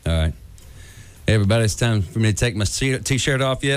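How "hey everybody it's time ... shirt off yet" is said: lazy laid-back Texan; Matthew McConaughey. Acted. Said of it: "Matthew McConaughey".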